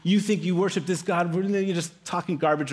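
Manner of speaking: mild mock taunts at the army; mocking giant. Giant mocking God's people, lightly imitated jeering. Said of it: "just mocking God's people".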